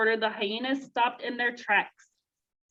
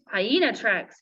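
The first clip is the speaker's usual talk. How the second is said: yelp; 3 dB louder, slower than usual. Acted. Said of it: "yelped Zazu".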